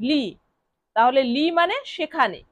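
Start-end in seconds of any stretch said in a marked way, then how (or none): 0.1-0.2 লি said as one syllable, "lee"; Italian pronunciation. Shown as a demonstration. Teacher answering how L-I is pronounced, Italian pronunciation. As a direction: say লি as Italian "li", l plus a pure "ee". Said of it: "এলআই এর উচ্চারণ কি হবে?".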